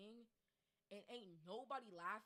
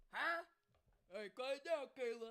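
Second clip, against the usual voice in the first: very loud, strict, stern teacher-like bark; 4 semitones higher, 10 dB louder than usual. Retelling what teachers at strict schools say: imitating a strict teacher. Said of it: "there's schools like this that'll be like".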